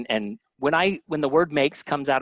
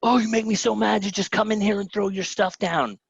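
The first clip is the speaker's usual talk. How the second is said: high, mock-exasperated complaint pitched well up; imitating annoyed wife; 9 semitones higher than usual. Husband imitates his wife scolding him, high mock annoyance. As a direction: play the irritated wife, half in jest. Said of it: "She's like".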